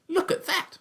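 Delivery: high, laughing exclamation; doctor laughing at the pheasants. Acted. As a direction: laugh it out in delight.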